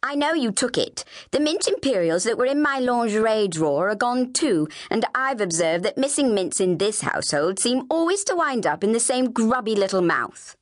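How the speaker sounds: haughty Ophelia, mildly indignant; lightly voiced snooty older sister; accusing older sister. Ophelia accuses Flavia of theft.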